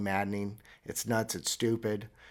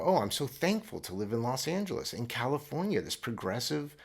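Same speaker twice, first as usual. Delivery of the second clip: mock smug; 4 semitones higher than usual. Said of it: "I go".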